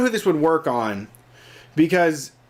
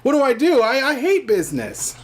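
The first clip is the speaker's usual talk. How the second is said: mock panic; 5 semitones higher than usual. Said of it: "And then you're like".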